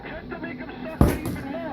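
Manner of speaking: emphatic repeat. Real, not acted.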